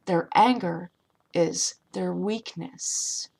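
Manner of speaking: "is their weakness" drawn out slowly; slow emphasis. Shown as a demonstration. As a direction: lean slowly on each word. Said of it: "Understand that".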